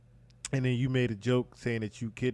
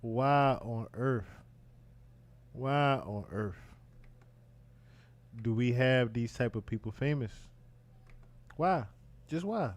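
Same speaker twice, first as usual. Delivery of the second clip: exasperated self-questioning; 3 dB quieter than usual. Acted. Commentator asking himself about famous people, exasperated. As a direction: ponder it wearily, as if to yourself. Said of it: "I'll be saying to myself".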